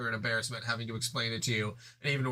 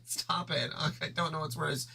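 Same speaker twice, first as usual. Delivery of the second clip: put-on lightly raised, fed-up girl voice; Jade voice; 4 semitones higher, slower than usual. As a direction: grumble it as an annoyed girl. Jade's lines again.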